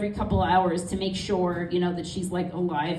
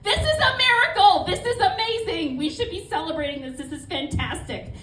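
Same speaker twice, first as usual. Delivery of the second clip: mock celebration; 10 semitones higher than usual. Cheering her mom's memory, high laughing mock excitement. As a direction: gush with laughing delight, winding down.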